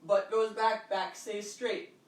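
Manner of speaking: slowed right down to show the form; slow teaching demo. Shown as a demonstration. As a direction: spell out each word slowly for the class. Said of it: "when you watch my squat".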